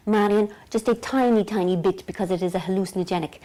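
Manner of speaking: lightly imitated Lithuanian accent; a touch of mock Lithuanian, careful advice; Vilma. Naturopath cautioning Marian about dosage, lightly imitated Lithuanian accent. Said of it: "'cause she's Lithuanian".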